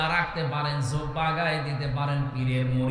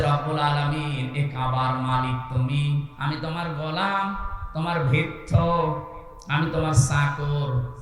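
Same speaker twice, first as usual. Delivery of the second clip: supplicating call. Retold or imitated. Pilgrim pleading before the Kaaba, retold supplicating call. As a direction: call out humbly to the Lord, phrase by phrase. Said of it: "ডাক দিয়ে বলা হচ্ছে".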